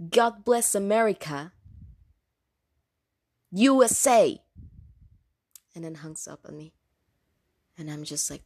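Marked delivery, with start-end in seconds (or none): 0.1-4.4 loud retold yell, rising on U S A; imitated patriotic yell. Client suddenly yelling into the phone at an agent, mimicked yell. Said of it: "he fucking screams into the phone, but, like, yells at it".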